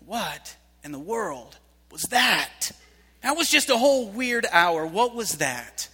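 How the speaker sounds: very slow, baffled question; slow bewildered murmur; stunned disbelief. Retold or imitated. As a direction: drag it out in disbelief. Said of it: "looking at Bruna and saying".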